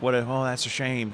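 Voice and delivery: softly imitating a subdued, sad remark; toned-down sadness. Actor illustrating Cid's vulnerable moments, toned-down sadness. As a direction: drop the volume, a touch of regret. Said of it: "he kind of toned down to observe".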